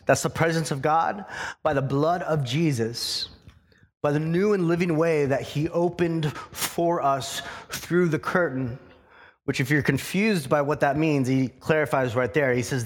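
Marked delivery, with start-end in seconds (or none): 1.6-8.8 deliberate scripture reading; slow reading. Real, not acted. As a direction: read slowly so each phrase lands. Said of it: "I'm gonna read this slowly".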